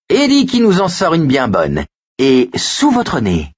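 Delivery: put-on high, crowing boy's voice; cackling boy. A narrator's reading. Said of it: "Richie se mit à caqueter". (voix aiguë de gamin qui caquette)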